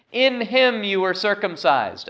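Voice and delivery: "In him" up front and high; stress on "In". Shown as a demonstration. Preacher reads verse eleven, stressing "In him". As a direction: open high on "In", then descend. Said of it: "emphasizing the word in".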